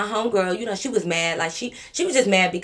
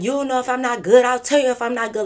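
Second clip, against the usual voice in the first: put-on higher, louder drunk yelling; mock spazzing out; 6 semitones higher, 5 dB louder than usual. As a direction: act out a drunk girl spazzing. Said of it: "she just started spazzing".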